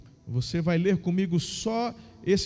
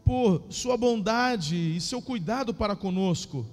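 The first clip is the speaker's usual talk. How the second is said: lively Bible reading, raised pitch; story narration; 3 semitones higher than usual. Acted. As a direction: read the story with feeling.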